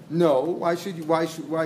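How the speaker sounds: questioning "No", drawn into "why should you"; doubtful "No" leading into "why"; as a question mark. Acted. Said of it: "he said it as a question mark".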